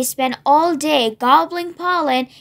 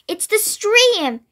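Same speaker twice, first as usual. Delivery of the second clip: high, drawn-out excitement; excited cry; 7 semitones higher than usual. A narrator's reading. Greedy bee recognises the stream, high excited cry. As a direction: stretch it out excitedly, pitched up. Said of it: "cried the greedy bee excitedly".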